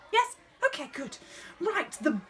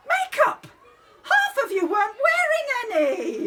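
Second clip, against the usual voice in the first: sharp raised telling-off, higher and louder; exasperated scolding; 7 semitones higher, 4 dB louder than usual. Real, not acted. Drama teacher to child cast, exasperated loud scolding. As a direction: scold the whole cast at once.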